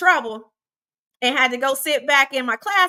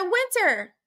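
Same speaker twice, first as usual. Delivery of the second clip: stern principal; 7 semitones higher than usual. Retold or imitated. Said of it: "And she said".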